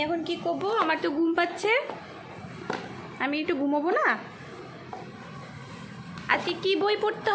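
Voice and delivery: mock-whiny talk to a toddler. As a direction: tease the little girl that you're too sleepy to play.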